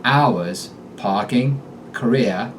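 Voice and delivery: "Hours" and "parking" without the final r, rising at the end; Boston "career" as "kareeah" with a rising tail; dropped R with rising end. Shown as a demonstration. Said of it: "R endings are dropped and rise in pitch".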